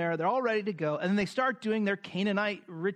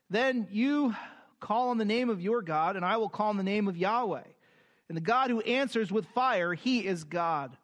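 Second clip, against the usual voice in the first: raised, measured Bible reading voice; scripture reading. Acted. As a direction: read the passage out to the congregation. Reads scripture aloud.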